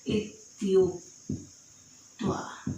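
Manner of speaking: teacher stretching इत्युक्त्वा syllable by syllable; slow dictation. Shown as a demonstration. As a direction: spell the joined word out slowly. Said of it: "त्वा जोड़ देंगे तो बन जाएगा".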